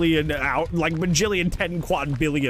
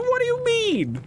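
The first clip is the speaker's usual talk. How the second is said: much higher, drawn-out falsetto disbelief; mock offended squeak. Real, not acted. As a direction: play it shocked in falsetto.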